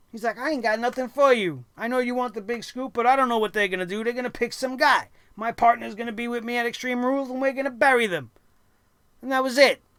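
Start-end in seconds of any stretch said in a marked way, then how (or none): 0.4-8.3 smug, offhand, dismissive, couldn't-care-less tone. Retelling a backstage interview answer: imitating Roman Reigns answering smugly. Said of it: "he very smugly answers her like he didn't give a shit".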